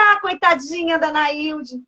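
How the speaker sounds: slow, drawn-out cooing sympathy; lightly acted pitying voice; mock pity. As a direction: imitate onlookers feeling sorry for her. Mimics people pitying her.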